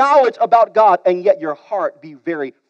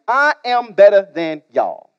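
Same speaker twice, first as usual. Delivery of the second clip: smug paraphrase. Retold or imitated. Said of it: "what he was trying to really communicate was".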